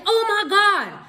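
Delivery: high-pitched mimicked shock; mock outcry. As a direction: imitate his overdramatic yelp. Mimics the man's outcry when hit.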